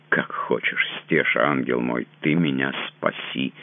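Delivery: soft, tearful begging; tearful plea. Acted. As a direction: plead on the edge of tears. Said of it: "Со слезами на глазах".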